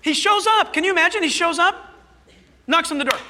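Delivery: high, loud excited telling; excited storytelling. A narrator's reading. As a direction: build the wonder of it. Excited retelling of leper's arrival.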